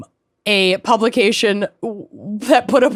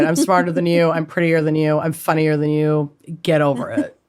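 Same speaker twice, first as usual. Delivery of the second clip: shrill catty stepsister; 4 semitones lower than usual. Retold or imitated. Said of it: "that's Norman Mailer to Gore Vidal".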